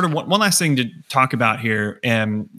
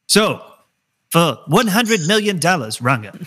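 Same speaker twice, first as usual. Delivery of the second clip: game show host; 6 semitones higher than usual. Pretend. Mock game show host line.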